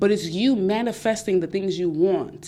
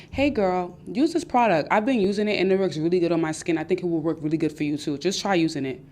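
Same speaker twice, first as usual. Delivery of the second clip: supportive friend. Retold or imitated. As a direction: gently nudge her to try it. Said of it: "Now, a friend would be like".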